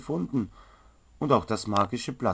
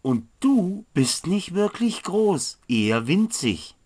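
cheeky retort; 7 semitones higher, 3 dB louder than usual. Acted. Apprentice cheekily teases the tiny great elf. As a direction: poke fun at his size.

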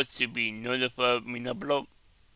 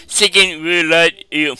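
amused repeat; 3 semitones higher, 10 dB louder, slower than usual. Real, not acted. Amused repeat of the clip's joke.

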